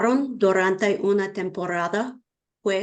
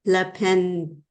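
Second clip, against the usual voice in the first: halting, syllable-by-syllable reading; careful learner decoding a hard word; sounding it out. Real, not acted. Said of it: "let me sound it out".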